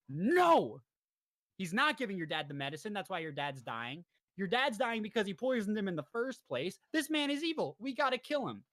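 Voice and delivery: a friend urging him to see the danger; retelling friend warns JoJo, mock urgent; urgent warning. Speedwagon warns JoJo about Dio.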